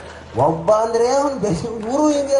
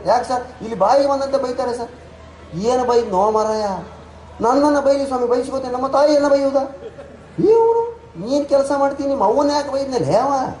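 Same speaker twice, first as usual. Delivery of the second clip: complaining in a raised, higher voice; a hurt Udupi clerk protesting; upset Udupi clerk, higher voice; 4 semitones higher than usual. Retold or imitated. Shenoy complains to the manager. (Udupi ಗುಮಾಸ್ತನ ಎತ್ತರದ ನೊಂದ ಧ್ವನಿ)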